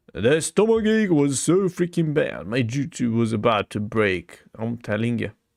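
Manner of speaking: plain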